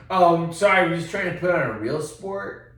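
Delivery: a hammed-up put-down from the guy at the bar; mock snooty retort. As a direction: sneer it like a smug rugby fan. Mocking the rugby fan's retort.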